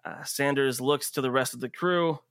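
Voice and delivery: measured scene setting with dramatic pauses; game master narration. Acted. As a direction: narrate the action steadily, leaving space between beats.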